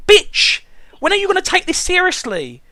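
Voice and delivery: fed-up shout at the character; exasperated outburst. Real, not acted. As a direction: snap at the screen in disbelief.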